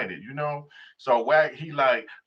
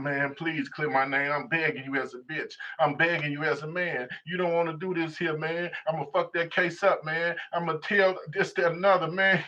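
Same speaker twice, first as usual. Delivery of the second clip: mocking the taped plea; 2 semitones higher than usual. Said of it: "talking about".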